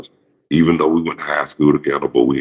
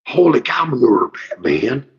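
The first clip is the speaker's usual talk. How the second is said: much higher, excited sidekick squeal; hyperactive Robin; 12 semitones higher than usual. Retold or imitated. Mocking Robin gushing at Batman, a high, hyperactive squeal. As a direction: gush it like an overexcited kid. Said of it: "with his old hyperactive".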